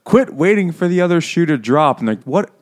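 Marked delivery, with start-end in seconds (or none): 0.1-2.0 much higher and louder correction; mock frantic correction. Doctor Manette fixing his idiom, mock frantic. 2.2-2.5 higher, louder exasperated cut-off; mock exasperated stop. The court cutting Manette off, exasperated.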